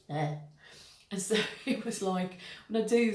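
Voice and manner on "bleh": second flat deflated bleh; flat heavy bleh again. Shown as a demonstration. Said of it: "I felt".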